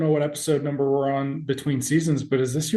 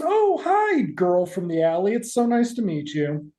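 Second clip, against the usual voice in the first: fake sweet greeting; 4 semitones higher than usual. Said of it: "Barb comes in and goes".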